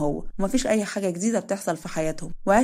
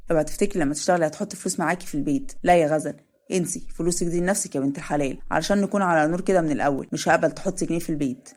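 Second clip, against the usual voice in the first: slightly lower, a touch of insistence; a hint of the stern brother setting rules; lightly voiced firm Adham; 3 semitones lower than usual.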